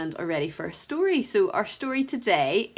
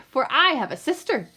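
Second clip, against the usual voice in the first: sly duck. Acted. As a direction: coax him along. Duck tempts the rat.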